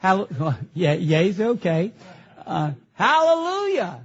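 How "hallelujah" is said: hallelujah cheer. Shown as a demonstration. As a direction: lead the congregation in praise. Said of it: "Say that".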